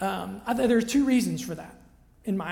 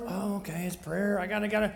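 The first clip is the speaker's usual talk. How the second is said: reluctant sigh; 2 semitones lower, 5 dB quieter, faster than usual. Pretend. Mock reluctant attitude to prayer.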